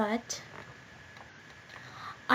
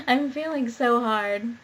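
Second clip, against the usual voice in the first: laughing; 4 dB louder, slower than usual. Real, not acted. Laughing at misread.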